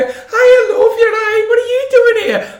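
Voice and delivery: high-pitched shouted greeting; aggressively friendly mock yell; loud Scouse women. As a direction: shriek it like overexcited Scouse women. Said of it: "they're so loud".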